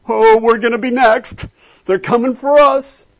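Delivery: voicing the hiding disciples, mock panic; scared disciples. Preacher acting frightened disciples behind locked doors, hammed-up fear. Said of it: "For fear of the Jews".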